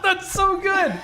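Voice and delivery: laughing high and loud; words bubbling with laughter; delighted laughing praise. Real, not acted. Laughing at accent attempt.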